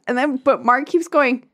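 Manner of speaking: usual speaking voice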